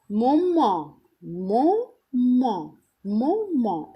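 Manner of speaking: مومون with silent t, nasal ending; French moment. Shown as a demonstration. Teacher drilling French مومون. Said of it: "خلينا أن فرنسي".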